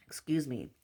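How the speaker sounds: hushed, voiceless apology after a cough; choked-up whisper. Real, not acted. Choked up mid-reading, whispering an apology. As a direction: clear the throat and whisper it. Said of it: "I just choked up a little bit".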